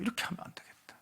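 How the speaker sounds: hushed whisper of inner realization; whispered to himself. Retold or imitated. Preacher repeats his realization to the congregation as a whisper. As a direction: breathe it out as a private thought.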